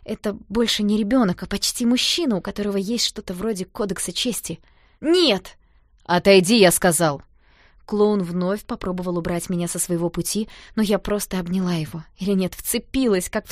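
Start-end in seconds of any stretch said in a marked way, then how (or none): 5.0-7.2 loud refusal. Acted. Danka pushes her away.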